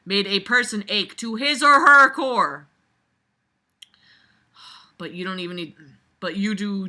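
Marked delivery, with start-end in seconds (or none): 0.0-2.7 savoring mock reading. Shown as a demonstration. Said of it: "Swish that around in your mouth".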